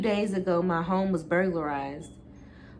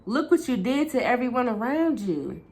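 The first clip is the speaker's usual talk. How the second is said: yelling; 6 semitones higher than usual. Acted. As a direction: yell the accusation at him. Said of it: "I yelled".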